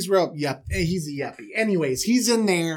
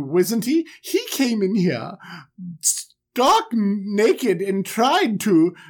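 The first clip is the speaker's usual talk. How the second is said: lightly voiced scheming lady, higher; scheming wife; 3 semitones higher, slower than usual. Potiphar's wife lying to servants, lightly higher voice. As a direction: play the caught wife spinning a lie. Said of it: "And she's like".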